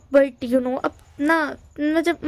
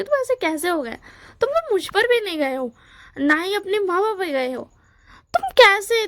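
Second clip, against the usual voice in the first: a lightly raised, higher uncle voice, fed up; exasperated uncle; 4 semitones higher than usual. Acted. Uncle asks Wangji how he became this way, exasperated. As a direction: uncle pleading in disbelief, pitch lifted.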